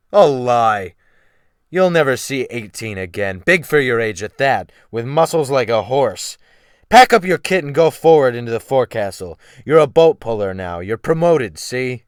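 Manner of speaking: loud, forceful orders; commanding captain. Acted. Captain ordering the boy forward, loud command. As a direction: bark out the orders.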